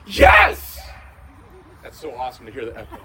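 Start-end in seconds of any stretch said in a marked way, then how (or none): 0.0-0.8 a huge high shout of joy; joyful scream. Retold or imitated. Healed woman shouting from the rooftops, joyful scream. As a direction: scream it out the car window. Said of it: "screaming from the rooftops".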